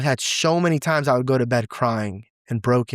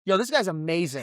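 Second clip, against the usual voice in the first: delighted praise; 4 semitones higher, 4 dB quieter than usual. Real, not acted.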